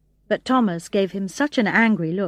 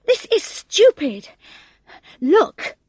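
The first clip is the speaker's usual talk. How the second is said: louder, higher slow irritation; irritated; 9 semitones higher, 5 dB louder, slower than usual. A narrator's reading. Hu shows friends the game is fake, irritated. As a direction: make them see it's silly. Hu fed up.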